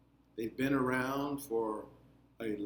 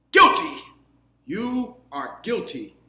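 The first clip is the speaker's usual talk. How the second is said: a much higher, loud declaration of guilt; queen's guilty verdict; 8 semitones higher, 12 dB louder than usual. A narrator's reading. Ant queen declaring Lucas guilty, loud and high. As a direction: pronounce the verdict like a ringing gavel.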